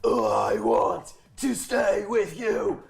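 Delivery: promposal. Acted. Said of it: "Death Metal Promposal voice for one page".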